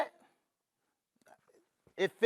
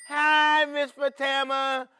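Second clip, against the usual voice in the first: put-on overbright kids party host. Teacher greets child cheerily.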